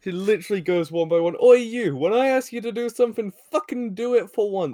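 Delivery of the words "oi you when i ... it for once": higher, louder hammed-up telling-off; cartoon villain scolding her minion, mock angry yell. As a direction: bark at a useless henchman. Rita yelling at her henchman.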